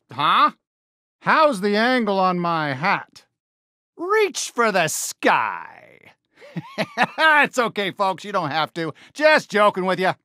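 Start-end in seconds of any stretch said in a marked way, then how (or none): 4.0-5.8 slow, mock-stern sheriff command; a hint of a gruff lawman; mock holdup. 6.5-7.1 high whooping cowboy laugh; big folksy cackle; hearty laugh. Acted. Laughs at own joke.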